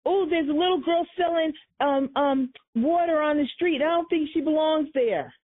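a touch of a prissy caller; mock caller. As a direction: imitate a fussy neighbour reporting. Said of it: "people can call up and say".

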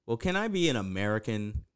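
fast, low mock-American actor asking to switch accents; lightly imitating an actor's American accent, laughing. Actor pleading with the director to play an American, mock American. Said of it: "he read the script and was like".

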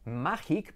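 "Magic" said Spanish-style as MAH-heek; pronunciación errónea. Shown as a demonstration. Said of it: "¿Pensabas que se decía magic?". ("Magic" dicho a la española, «májik»)

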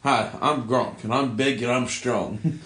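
slow, dopey pitchman read; lightly voiced dumb jock commercial; slow hammed-up ad voice; mock Gronk ad. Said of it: "mock Gronk commercial".

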